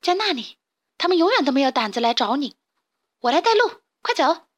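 high, quick, urgent; eager lead. Acted. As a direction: hurry him along. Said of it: "卡门说".

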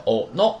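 哦no with both vowels kept short; no long vowel. Shown as a demonstration. Teacher cautions about the surname Ono, no long vowel. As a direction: say 哦no as two short syllables, no drawn-out o. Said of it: "注意是没有长音的，就是".

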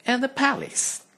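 very high, loud gloating squeal; stroppy stepsister cry; stroppy sister crying. Acted. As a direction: crow it over Cinderella.

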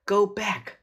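loud, high squawked warning; parrot squawk. A narrator's reading. Parrot warning the children, squawking. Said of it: "squawked Polly".

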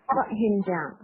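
BROUGHT running straight into HIM; linked BROUGHT HIM. Shown as a demonstration. Teacher showing learners how to link, BROUGHT HIM joined. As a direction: join BROUGHT HIM as one word. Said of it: "也是做一个连读的".

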